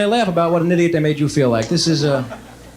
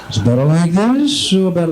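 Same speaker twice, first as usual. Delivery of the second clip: eye doctor. Acted. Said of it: "my impression of every eye doctor in the world".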